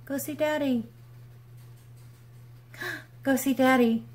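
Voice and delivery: high, sing-song coaxing; mother coaxing dog to go see Daddy, high; coaxing pet voice. Real, not acted. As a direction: coax the dog out of the room.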